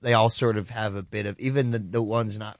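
lightly put-on American drawl; a hint of slow Southern US drawl. Shown as a demonstration. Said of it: "talk like this".

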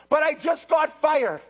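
loud, high whiny mock panic. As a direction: play the worrier for laughs. Mocking a worried believer.

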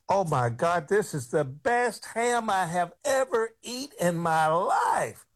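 high, gushing amazement; mock wide-eyed delight; amazed girl. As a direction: gush like it's the best thing ever tasted. Girl amazed by fried bologna.

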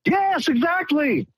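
high, drawn-out excited yes; elated and pitched well up; delighted agreement. Real, not acted. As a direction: agree with real delight, stretching it. Caller delightedly agrees about free money.

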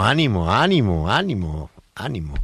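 lilting, repeated cheer-him-on tune; friendly singsong encouragement; encouraging. Real, not acted. Journalist cheers on minister at sign-off.

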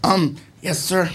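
soft, restrained reply; composed. Retold or imitated. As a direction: answer softly, imitating regained composure. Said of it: "I maintain my composure".

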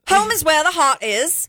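Mary Poppins style British; British accent. Pretend. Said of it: "It's British".

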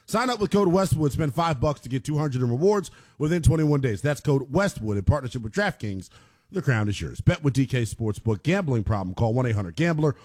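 scripted sponsor read, evenly paced. Real, not acted. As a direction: read the promo and disclaimer straight through. Reads sponsor ad and disclaimer.

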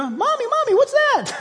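tiny zebra asking its mother about the noise; baby zebra voice. Pretend. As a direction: squeak it out like a scared little foal. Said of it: "Can you imagine a little baby zebra".

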